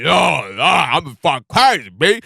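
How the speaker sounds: loud, drawn-out mock New York accent; put-on New York accent. Mocking a friend who suddenly brings out an accent, exaggerated New York accent. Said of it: "somebody that talks like".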